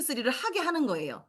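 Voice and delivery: usual speaking voice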